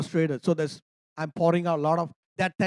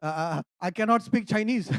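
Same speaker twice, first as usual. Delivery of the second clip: flustered apology. Retold or imitated. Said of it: "the only word I know".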